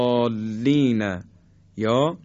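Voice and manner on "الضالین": الضالین with a side-tongue daad; الضالین said with a stretched daad; daad demo. Shown as a demonstration. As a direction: recite الضالین with a long daad.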